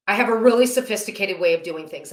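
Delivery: dry, sarcastic understatement. Real, not acted. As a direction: say it with mock pride. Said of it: "I'm saying this with sarcasm".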